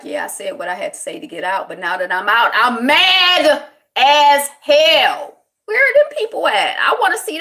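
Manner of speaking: mock furious outburst. Imagined freed prisoner venting.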